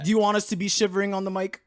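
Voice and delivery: high, loud incredulous protest. Real, not acted. Arguing about thermostat.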